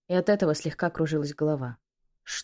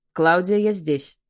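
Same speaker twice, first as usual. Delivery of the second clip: urgent call; 6 dB louder, slower than usual. A narrator's reading. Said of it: "проговорил Майкл".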